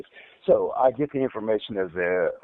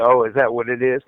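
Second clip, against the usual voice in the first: louder, imitated cocky comeback; 6 dB louder than usual. Retelling his reply about the stuttering, cocky. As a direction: quote him with eye-rolling disbelief. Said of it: "just being real cocky".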